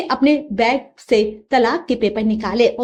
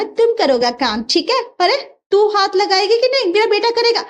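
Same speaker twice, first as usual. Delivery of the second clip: higher, sing-song broken Hindi; foreign bride voice; 7 semitones higher than usual. Acted. Russian bride teases her mother-in-law in broken Hindi.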